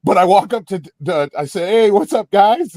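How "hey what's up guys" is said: higher-pitched eager hail; retold excited greeting. Fan walking up to the band at the bar, eager greeting.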